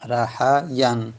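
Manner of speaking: رحین said very slowly and deliberately; slow model pronunciation. Shown as a demonstration. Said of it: "رحین یایی هست با یا".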